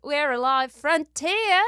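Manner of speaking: put-on guest credits in a patchy Australian accent; mock Australian accent. Host finishing the guest introduction, in a hammed-up Australian accent. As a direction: stretch it out slowly in an amateur Australian accent. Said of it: "in my Australian accent".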